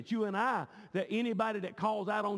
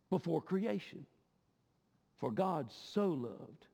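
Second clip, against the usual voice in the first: solemn preaching; slower than usual. Real, not acted. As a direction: let each phrase settle on the congregation. Slow solemn preaching after climax.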